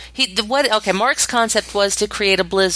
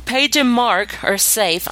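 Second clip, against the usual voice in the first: yawning through the words; slow, sleepy yawn; 3 semitones higher, slower than usual. Real, not acted. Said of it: "Sorry for the yawns".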